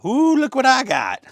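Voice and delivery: high, loud singsong whoop; gleeful show-off. Real, not acted. Host showing off tray one, gleeful high crow.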